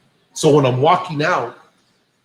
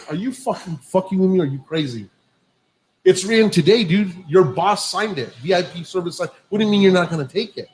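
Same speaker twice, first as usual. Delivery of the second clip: higher-pitched, incredulous protest; retold indignation; 4 semitones higher than usual. Driver to attendant refusing the signed slip, indignant. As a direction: argue the case in disbelief, without shouting.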